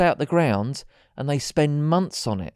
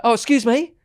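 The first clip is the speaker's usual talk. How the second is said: higher, louder put-on smarmy greeting; mock chat-up line; 7 semitones higher, 7 dB louder than usual. Charity bloke stopping passing wife, mock smarmy. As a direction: ham up a smooth charmer. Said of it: "One bloke was like".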